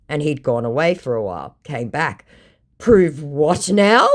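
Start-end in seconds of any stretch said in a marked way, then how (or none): 2.8-4.1 slow, offended "prove what now"; mock the scammer's wounded pride; indignant. Retelling the scammer's reply, mock indignant. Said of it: "I could feel the indignation".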